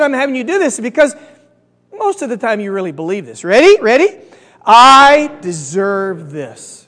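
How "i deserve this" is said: very slow, drawn-out group chant lead; slow, deliberate declaration; loud and proud. Shown as a demonstration. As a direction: lead the crowd in saying it, stretching it out slowly. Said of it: "Say it with me really loud and proud".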